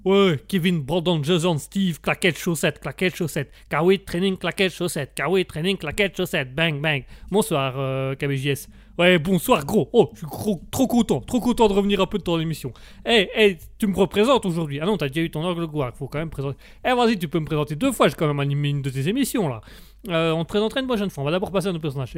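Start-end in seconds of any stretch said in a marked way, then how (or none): 0.0-7.0 rhythmic roll-call of names and streetwear; lightly voiced street lad reeling off a catchphrase; street-lad character. Street lad opens his radio bit, cocky chant. 9.0-19.6 pushy street lad, lively and slangy; lightly voiced cocky lad on air; street-lad character. Street lad begs the host to introduce him, pushy and familiar.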